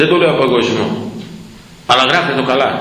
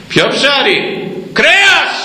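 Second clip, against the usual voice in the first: mocking cry; 12 semitones higher, much slower than usual. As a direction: throw out the word in mockery. Mocking bishops mocking the fast. (ειρωνική δυνατή κραυγή με ψηλή φωνή)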